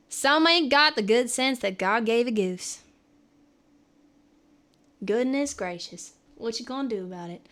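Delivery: put-on folksy Southern twang; Southern accent. Shown as a demonstration. Streamer trying Southern sayings on chat, Southern accent. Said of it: "I could do that".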